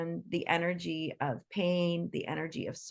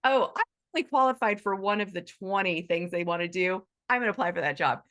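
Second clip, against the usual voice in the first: breezy Gen Z; faster than usual. Retold or imitated. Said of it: "Not these Gen Zs".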